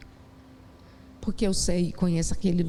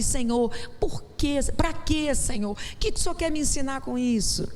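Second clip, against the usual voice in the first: raised, pleading why-Lord; a plaintive raised question, not a demand; questioning prayer; 7 semitones higher than usual. Retold or imitated. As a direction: ask God gently what the lesson is. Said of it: "Eu não falei".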